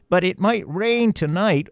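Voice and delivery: high, slow squeaky protest; arguing mouse. A narrator's reading. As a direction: mouse insisting it might rain. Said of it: "argued the second".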